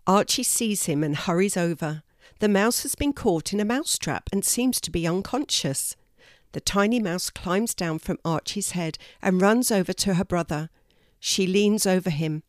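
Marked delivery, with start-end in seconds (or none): none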